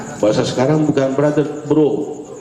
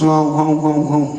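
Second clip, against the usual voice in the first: mock French.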